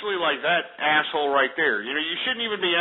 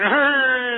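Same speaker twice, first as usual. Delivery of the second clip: laughing; 8 semitones higher, 6 dB louder than usual. Real, not acted. Mocking the prank callers.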